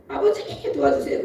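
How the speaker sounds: high, half-laughing plea; pleading prayer. Retold or imitated. Child begging Father for help, high and pleading. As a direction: cry out to Father, pitched well up. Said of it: "이러면서 막 이러고".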